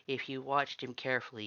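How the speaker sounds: ordinary delivery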